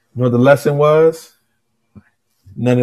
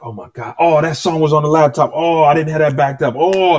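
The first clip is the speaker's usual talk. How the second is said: getting mad again; 4 semitones higher than usual. Retold or imitated. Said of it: "so now I'm getting mad again".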